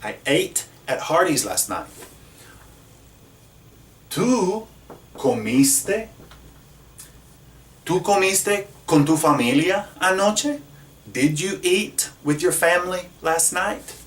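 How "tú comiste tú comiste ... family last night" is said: higher, animated question to the class; teacher asks the class, higher and brighter; lively question. Shown as a demonstration. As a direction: ask it brightly, as if to a student. Asking students a modeled question.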